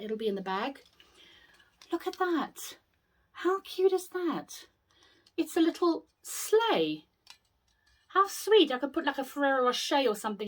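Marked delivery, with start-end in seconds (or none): 1.9-8.7 higher, hushed coo of delight. Real, not acted. Gushing over little sleigh.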